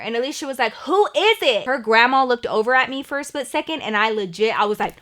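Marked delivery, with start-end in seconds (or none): 0.7-1.7 calling back. Retold or imitated. Alicia calls back from upstairs.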